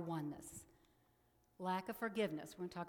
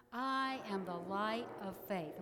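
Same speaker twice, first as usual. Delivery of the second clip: louder, firm declaration; said like you mean it; 4 dB louder than usual. Shown as a demonstration. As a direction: proclaim it with conviction. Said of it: "say them like you mean it".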